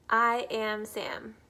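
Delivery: loud, slow storybook Sam; Sam character voice. Acted. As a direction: boom out a cheerful character line. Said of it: "read you guys Green Eggs and Ham".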